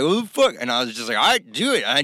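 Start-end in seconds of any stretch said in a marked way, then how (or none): 0.0-0.5 high, louder shocked outburst; retold startled yelp. 1.2-1.8 higher, louder dare; daring. Retold or imitated. Retold himself daring.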